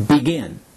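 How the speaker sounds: Begin, with weight on the falling "gin"; stress on last syllable. Shown as a demonstration. Teacher asks learners to repeat Begin, last syllable stressed. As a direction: land on the second syllable of Begin. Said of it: "Repeat after me".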